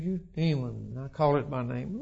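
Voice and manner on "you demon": quietly muttered to the demon, much softer; under his breath. Retold or imitated. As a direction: say it barely audible, under your breath. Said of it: "About that loud".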